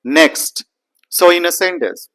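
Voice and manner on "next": "next" with every consonant sounded; full final T. Shown as a demonstration. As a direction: pronounce the T at the end of "next". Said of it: "we need to pronounce it as next".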